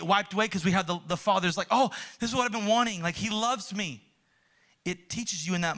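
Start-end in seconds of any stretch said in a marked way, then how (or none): 1.7-4.0 quick, higher rush of happy relief; relieved delight. Acted. Son winning dad's approval at last, delighted relief. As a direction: voice a child who finally feels loved. Child finally gets father's approval.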